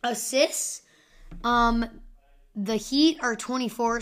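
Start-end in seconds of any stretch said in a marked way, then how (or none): 2.5-4.0 voice cracking. Real, not acted. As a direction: voice cracks mid-phrase. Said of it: "Sorry for my voice crack".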